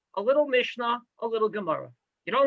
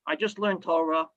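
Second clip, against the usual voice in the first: a hint of a weighed-down groan, lower; mock burdened; 3 semitones lower than usual. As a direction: lightly act out feeling Torah as a heavy yoke. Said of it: "walk around saying".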